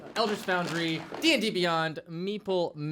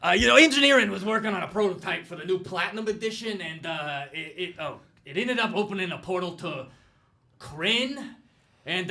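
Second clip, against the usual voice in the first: lightly voiced flustered office worker; put-on email writer's voice. Host reading an email about a coworker lost through a portal, lightly put-on voice. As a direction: read it as the slightly flustered sender, correcting slips. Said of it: "I'll read it in that voice".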